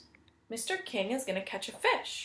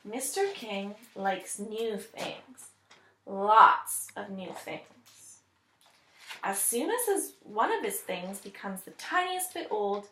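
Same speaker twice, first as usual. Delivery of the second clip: story narration. Acted. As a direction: read it like a picture book to children. Teacher reads story aloud.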